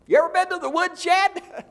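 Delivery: loud, high, rising pulpit voice; fervent shouting sermon; high preaching cry. Real, not acted. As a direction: cry it out to the congregation.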